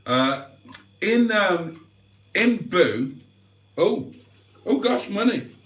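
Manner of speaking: holding back hiccups between words; talking while stifling hiccups; suppressing hiccups. Real, not acted. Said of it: "Sorry, I'm trying to suppress hiccups now".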